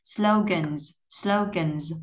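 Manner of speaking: "slogans" ending in a voiced z; final Z sound. Shown as a demonstration. Teacher modelling the plural, final z on "slogans". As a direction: buzz the last sound of "slogans". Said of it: "mình sẽ đọc là âm Z".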